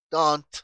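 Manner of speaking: "don't" lento y fuerte, con T final explosiva; T final pronunciada. Shown as a demonstration. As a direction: alarga "don't" y remata con la T. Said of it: "estoy pronunciando la T al final". ("don't" despacio, marcando la T final)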